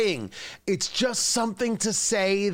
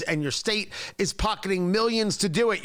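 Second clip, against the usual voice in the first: ordinary talk, nothing marked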